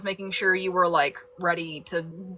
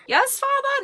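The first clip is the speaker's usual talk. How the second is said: mock formal address; 4 dB louder than usual. Mock formal greeting to dad.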